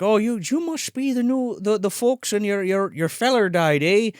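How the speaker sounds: lightly voiced Irish groundskeeper; mock Irish accent. Groundskeeper greeting the bereaved folks, light Irish accent. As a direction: put on a light Irish lilt. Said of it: "he's doing the Irish accent".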